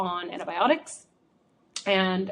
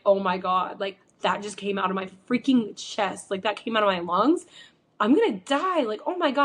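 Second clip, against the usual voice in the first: freaking out. Retold or imitated. Retelling coughing up green goo, mock panic. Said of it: "I was freaking out".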